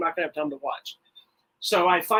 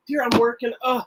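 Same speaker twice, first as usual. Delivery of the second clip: husband lightly mimicking his wife's annoyed brush-off, a bit higher; a touch of put-upon sighing, dragging out the last question slowly; irritated wife; 3 semitones higher, slower than usual. Husband imitating wife annoyed at being shown things, mild mock irritation. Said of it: "she's all irritated".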